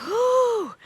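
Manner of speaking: put-on a high whoop like an excited kid. Kids showing rhythm, a high excited whoop. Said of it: "Even when we're like".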